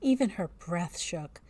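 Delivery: measured storybook reading voice; story narration. A narrator's reading. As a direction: read it like a spooky tale.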